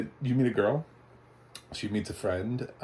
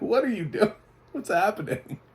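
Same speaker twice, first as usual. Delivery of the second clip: high-pitched mock bewilderment; baffled reaction; 13 semitones higher, 4 dB louder than usual. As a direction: react as if utterly thrown. Baffled reaction to aggressive bad accent.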